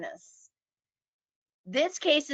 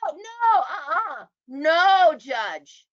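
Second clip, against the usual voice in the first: higher, louder, slower hammed-up shout; mock hollering; 7 semitones higher, 3 dB louder, slower than usual. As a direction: holler like an outraged attorney. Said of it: "and hollering".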